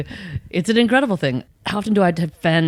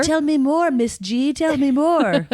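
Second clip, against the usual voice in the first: higher, wide-eyed mock fascination; hammed-up curious voice, pitched up; eager mock listener; 9 semitones higher, slower than usual. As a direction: play a kid begging for more. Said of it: "be like".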